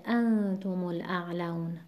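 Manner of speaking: انتم الاعلون with the weight on "an" of انتم; AN-tumul in انتم الاعلون; stress on first syllable. Shown as a demonstration. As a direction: lean on AN, keep "tumul" light in انتم الاعلون.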